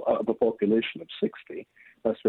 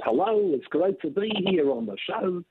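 cartoon rabbi's higher, sing-song Jewish accent; fake Jewish accent; 8 semitones higher than usual. Cartoon rabbi greeting a TV studio, fake Jewish accent. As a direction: put on a hammed-up Jewish accent. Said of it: "uh, Jewish accent".

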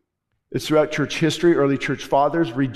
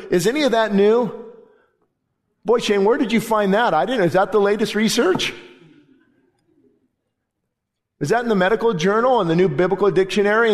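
sarcastic, higher mock wonder; playfully sarcastic astonishment; mock amazement; 4 semitones higher, faster than usual. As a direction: feign amazement at old news. Sarcastic mock amazement at old truth.

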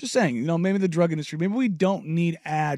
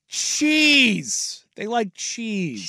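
put-on high excited kid voice; 4 semitones higher, much slower than usual.

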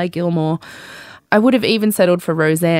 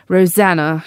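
mock posh Australian accent; 4 dB louder than usual. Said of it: "in an accent that fell".

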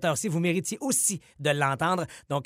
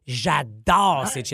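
enthusiastic; 2 semitones lower, 5 dB louder, much slower than usual. Real, not acted. Emphatic enthusiasm.

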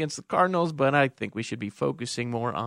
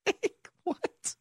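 incredulous; 7 dB quieter than usual. Real, not acted. Host mocks texter in disbelief.

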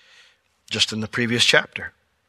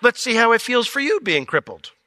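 much higher, hammed-up taunt; mock threat; 10 semitones higher, 4 dB louder than usual. Pastor pretending to shove the disciples, mock taunt. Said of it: "that's when I push them".

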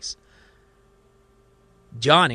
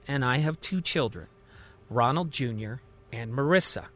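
calm. Acted. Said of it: "Johnny calmly says".

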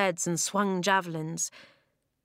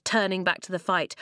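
ordinary delivery

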